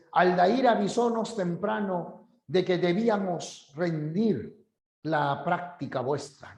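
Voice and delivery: put-on stilted old-fashioned phrasing, slowing at the end; mock archaic formality; affected formal speech. Shown as a demonstration. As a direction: sound pompously proper. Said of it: "es afectado".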